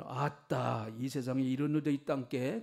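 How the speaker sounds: playful Jeolla accent, rising at the end; Jeolla dialect. Shown as a demonstration. Preacher amusing the congregation, exclaiming in Jeolla dialect. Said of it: "전라도 사투리는".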